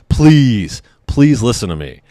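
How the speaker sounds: imploring, retold in frustration; begging. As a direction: plead to be listened to. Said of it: "I'm just begging this lady".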